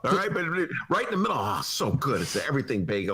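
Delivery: chewing while talking. Real, not acted. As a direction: talk through a mouthful of bagel. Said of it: "I'm just chewing".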